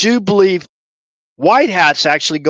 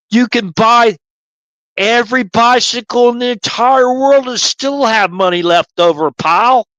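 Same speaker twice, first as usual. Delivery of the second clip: lightly voiced gruff drill sergeant, lecturing his private; a hint of a barking Marine sergeant explaining patiently; mild drill-sergeant lecture to a private; Sergeant Carter; 4 semitones higher than usual. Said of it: "I don't have Sergeant Carter down".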